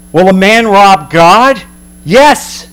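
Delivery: slow, weighty rebuke; God's stern verdict, slow and heavy. Acted. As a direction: lay the charge on them slowly. Prophet voicing God's rebuke.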